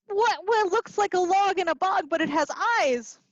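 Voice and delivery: animated storybook reading; reading to children. A narrator's reading. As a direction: read it like a lively story time. Teacher reading picture book aloud.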